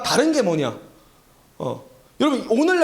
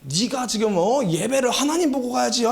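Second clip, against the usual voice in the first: mild mock scolding in father's voice; 아버지의 호통; 2 semitones higher than usual. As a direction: imitate a father telling off his child. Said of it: "호통치신 것 같은 거예요". (아버지를 흉내 내는 가벼운 호통)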